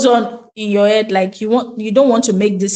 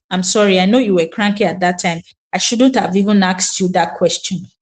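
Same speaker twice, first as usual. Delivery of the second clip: lightly voiced daughter, pitched lower; apologetic daughter; 4 semitones lower than usual. Daughter apologizing to her cranky mother, lightly voiced and low. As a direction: retell a child's subdued apology. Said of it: "She will come around and say".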